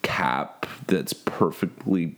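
lazy influencer fry; vocal fry. Pretend. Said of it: "Our media voice?".

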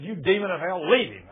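loud exorcising rebuke; forceful command. Retold or imitated. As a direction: order it out with force. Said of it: "real forcefully".

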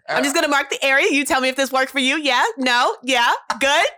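lightly acted piercer walking a client through it; perky questioning customer-service patter; ear piercer. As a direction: run through the routine with quick little check-ins. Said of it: "You did that too perfectly".

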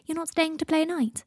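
put-on high, slow little-kid question; disappointed child. A narrator's reading. Teddy to departing godfather, disappointed child's voice. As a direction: ask it as a let-down small boy.

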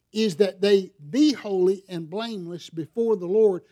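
"be" pressed firmly in the quote; stress on be. Shown as a demonstration. Preacher reading the verse to the church, stressing "be". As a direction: lean on the word "be" in "they be holy". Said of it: "The emphasis on the word be".

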